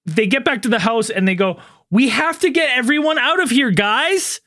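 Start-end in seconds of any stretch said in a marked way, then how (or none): 1.9-4.4 hammed-up quote, pitched higher; lightly mocking movie-line delivery; mock movie acting. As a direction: mimic a stilted actor announcing a plan. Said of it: "Just like that".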